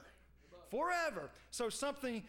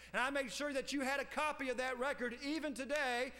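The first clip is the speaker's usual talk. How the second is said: lightly voiced God, pitched up; preacher voicing God laying out his record; God speaking; 4 semitones higher than usual. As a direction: declare it in God's own person, higher and insistent. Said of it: "God says".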